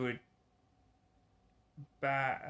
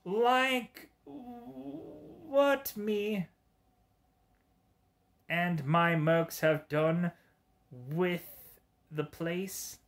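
much higher, strained giddy villain voice; Joker voice; 4 semitones higher, much slower than usual. Acted. Gamer doing Bullseye as Mark Hamill's Joker, high and giddy. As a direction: ham up a cackling cartoon villain. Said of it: "Mark Hamill's Joker".

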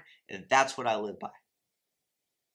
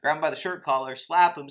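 mock outrage; 3 semitones higher, 5 dB louder, faster than usual. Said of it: "about to, like, throw something through the T V".

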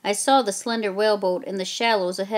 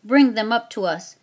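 redcoat calling out; 2 semitones higher, 4 dB louder than usual. Acted. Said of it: "another redcoat called out".

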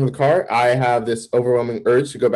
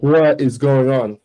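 slow, drawn-out bewilderment; retold freak-out; slower than usual. Man retelling looking around his room, freaking out. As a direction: stretch each word in mock disbelief. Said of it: "I'm freaking out".

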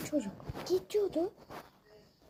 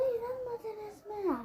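drawn-out tease; 7 semitones higher, 5 dB quieter, much slower than usual. Acted. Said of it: "İnandınız mı gerçekten?".

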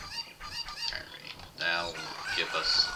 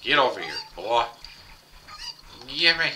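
calling out; 8 semitones higher, 6 dB louder than usual. Real, not acted. Calling chickens loudly.

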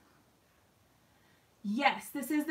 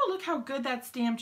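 ordinary talk

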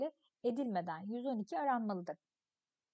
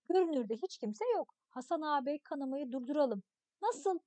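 put-on expressive read-aloud of a children's story. Teacher reading a story text to pupils, expressive narration. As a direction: read the tale to the class, acting the voices.

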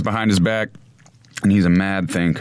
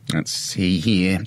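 whispering; 3 semitones lower, much slower than usual. Real, not acted. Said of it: "quiet searching".

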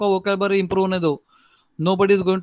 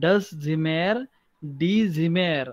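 slow, drawn-out das Zimmer, die Zimmer; model pronunciation; 2 semitones lower, 4 dB quieter, much slower than usual. Shown as a demonstration. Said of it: "whenever you are speaking".

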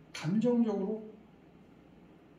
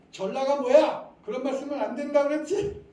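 a mother's loud, higher scolding; 7 semitones higher, 7 dB louder than usual. Retold or imitated. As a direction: snap at the child for bad words. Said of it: "어떤 엄마?".

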